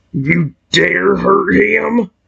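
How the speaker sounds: rasping beast voice, rough with a creaky edge. Reading a story, the Hydragon defends the human protecting it: deep Hydragon voice. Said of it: "I gave him a deep voice".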